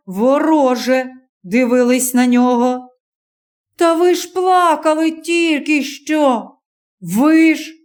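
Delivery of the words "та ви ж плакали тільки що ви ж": higher, slow, accusing plea; reproachful young man. Acted. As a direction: remind them of their tears. Stranger reproaches the crowd.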